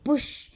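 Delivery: पुश with P and SH pressed, the U light; stress on P and SH. Shown as a demonstration. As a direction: push the P and the SH in पुश. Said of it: "पी और एस एच पर ज़्यादा". (पुश में प और श पर ज़ोर, उ हल्का)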